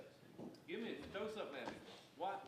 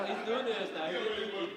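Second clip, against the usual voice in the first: words spilling out through loud laughter; laughing while talking; 4 semitones higher, 11 dB louder, much slower than usual. Real, not acted. Speaker telling the room about Brian's finger, loud laughing speech.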